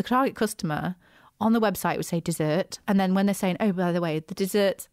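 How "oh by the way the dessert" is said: lightly posh delivery. Shown as a demonstration. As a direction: say it like a posh host. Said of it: "I sound like I've got my posh voice on".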